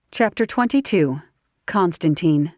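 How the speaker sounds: Constantine read evenly as a heading; Constantine announced as the chapter name; chapter title. A narrator's reading.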